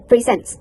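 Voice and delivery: "presents" with a voiceless S, pre-SENS. Shown as a demonstration. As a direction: demonstrate "presents" without any buzzing Z. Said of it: "There's no some Z in the middle".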